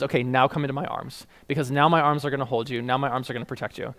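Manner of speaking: soft, low voice of a sheltering God; tender reassurance. Retold or imitated. God inviting the speaker into his arms, tender.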